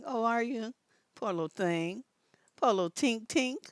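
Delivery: softly cooed fake pity; baby-talk a little mock condolence; mock sympathy. Teasing a crying little cousin, mock sympathy.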